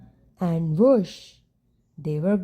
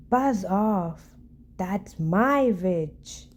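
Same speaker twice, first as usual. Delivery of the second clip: a slow, strange monster growl; terrible beast voice; slower than usual. Acted. Beast warning the dragon off the witch, slow growling monster voice. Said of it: "its terrible voice ... a growl and a croak".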